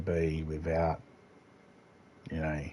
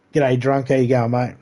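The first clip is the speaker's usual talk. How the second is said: loud friendly greeting; 5 semitones higher, 8 dB louder than usual. Real, not acted. Greeting a passing player in-game, loud and cheery. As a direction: call out a loud, cheery g'day from a distance.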